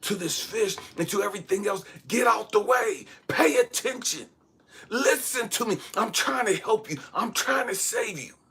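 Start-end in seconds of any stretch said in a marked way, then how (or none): 2.1-8.3 put-on high, urgent, half-shouted mild yell. Retelling yelling underwater at an oblivious fish: imitating own yelling at top of lungs. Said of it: "yelling at the top of my lungs".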